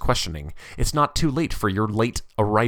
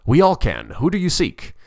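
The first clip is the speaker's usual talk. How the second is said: chorus reply; 7 semitones higher, 4 dB louder than usual. A narrator's reading. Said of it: "Replied a chorus".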